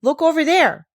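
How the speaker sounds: called out high and loud, pointing; exclaiming. Acted. Barbel points out Heidi to Deet, exclaiming high and loud. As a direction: sing out to draw her eye to the slope. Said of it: "exclaimed Barbel".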